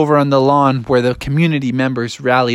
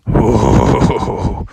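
ominous noise; 6 semitones lower than usual. Acted. Sound after a warning.

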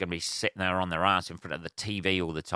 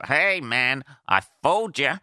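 high, louder gloating "gotcha" voice; mock prankster; 5 semitones higher, 5 dB louder than usual. Mocking April Fools pranksters who boast, high mock-gloating. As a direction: crow it like a tiresome prankster.

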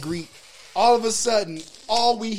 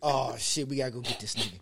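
dismayed aside; 7 semitones lower, 9 dB quieter than usual. Retold or imitated. Retold dismayed aside between two friends.

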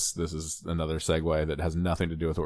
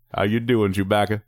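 stammering awkward suitor; 4 dB louder than usual. Retold or imitated. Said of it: "an awkward impression".

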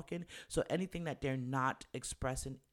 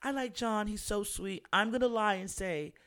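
high, sweet mock girlish voice; girl's aside; 8 semitones higher, 4 dB louder than usual. Contestant telling herself she'll lie for John, high girlish voice. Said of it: "She says to herself in the room".

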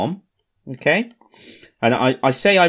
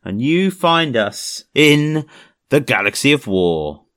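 podcast intro; slower than usual. Acted. Show intro over music.

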